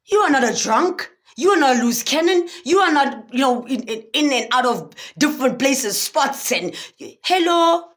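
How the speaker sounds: a hint of a stern talking-to in the mirror; scolding herself. Talking to herself in the mirror, lightly stern scolding. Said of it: "And I looked at myself".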